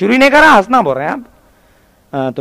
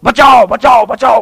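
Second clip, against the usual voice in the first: raised, higher mock cries; mock cry for rescue; crowd calling for help; 4 semitones higher, 5 dB louder, slower than usual. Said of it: "ठहर के लोग".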